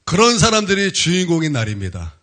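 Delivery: emphatic pulpit announcement; preaching proclamation. Real, not acted. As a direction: proclaim it firmly to the congregation. (힘 있게 선포하는 설교조)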